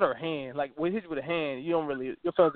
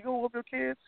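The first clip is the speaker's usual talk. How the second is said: mock asker; 8 semitones higher, 7 dB quieter than usual. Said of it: "they be like".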